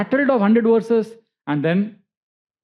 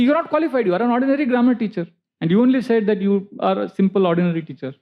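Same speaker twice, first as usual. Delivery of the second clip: scornful dismissal; 3 semitones higher, faster than usual. Retold or imitated. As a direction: look down on him from a great height. Scholar scorns the teacher.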